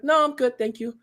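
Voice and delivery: nice, high-pitched brush-off; polite refusal. Retold or imitated. Customer declining GameStop clerk's help, polite high refusal. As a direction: turn them down nicely, voice lifted. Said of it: "I've said no nicely".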